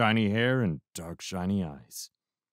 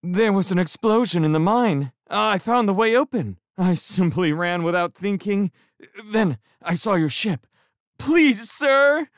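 high and louder, a hammed-up wail; wailing plea; 12 semitones higher, 5 dB louder than usual. A narrator's reading. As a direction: whine out the escape story. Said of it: "I wailed".

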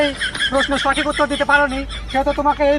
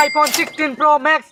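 drawn-out announcer; much slower than usual. Acted. Host's drawn-out prize announcement.

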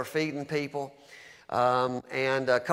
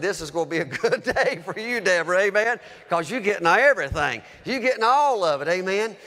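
joyful announcement; 4 semitones higher, 4 dB louder than usual. Retold or imitated. Greeting overjoyed Deborah with supplies.

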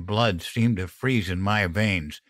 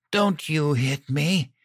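higher, tearful protest; mild sob; 7 semitones higher than usual. A narrator's reading. Wife pleads with partner after falling, mildly sobbing. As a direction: plead through a touch of tears. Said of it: "Mom sobbed".

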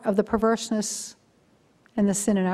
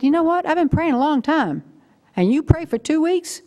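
mock exasperation; 6 semitones higher than usual. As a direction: tease them for praying only two weeks. Teasing friends over quick answer.

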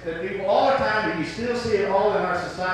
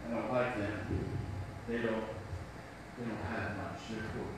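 snobbish sneer; 11 semitones lower, 15 dB quieter than usual. Retold or imitated. Preacher mocking a snob who looks down on the poor, low sneer. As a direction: look down your nose and sneer it low. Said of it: "You may look down on people who have less income".

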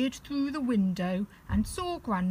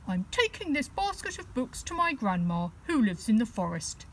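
little bear cub; 2 semitones higher than usual. Acted. Teddy answers the wolf.

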